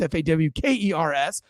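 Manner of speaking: Fockers spelled out letter by letter, F A W K E R S. Shown as a demonstration. Host spelling his fans' nickname "F A W K E R S" letter by letter. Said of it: "you Fockers".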